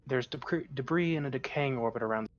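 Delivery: ship computer reporting, even tone; lightly voiced computer readout; robot voice. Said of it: "nothing but robot voices".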